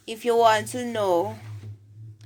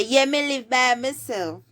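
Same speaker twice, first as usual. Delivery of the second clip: higher-pitched Jamaican Patois reply; 4 semitones higher than usual. Shown as a demonstration. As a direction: answer as a Patois teacher models it. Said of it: "you say".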